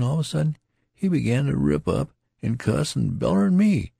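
a feverish man chattering on; lightly voiced dying soldier; tattered soldier, rambling.

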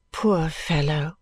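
slow, low, pitying; tender sympathy. Acted. Ada consoling her cousin, tenderly sympathetic. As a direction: linger gently on the sympathy.

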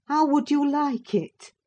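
scandalised housekeeper; shocked. Acted. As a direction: throw the question at him in dismay. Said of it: "shocked at his godless indifference".

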